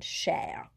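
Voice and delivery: CHER with the French R sounded at the end; final R pronounced. Shown as a demonstration. Teacher giving a word that isn't a verb, final R pronounced. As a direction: let cher end on an audible R. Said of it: "you will hear that R at the end".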